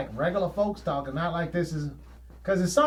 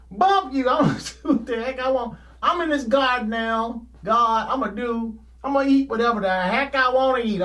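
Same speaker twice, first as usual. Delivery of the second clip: defiant Adam and Eve; 3 semitones higher than usual. Retold or imitated. Adam and Eve defying God in the garden, mock rebellious laughing. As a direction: laugh it off as you defy God. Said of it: "They just basically say".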